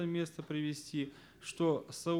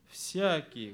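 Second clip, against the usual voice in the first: «всякий» leaned on, with a falling tone; stress on ВСЯКИЙ. Shown as a demonstration. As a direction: land firmly on «всякий». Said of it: "первое ударение я поставил на слово".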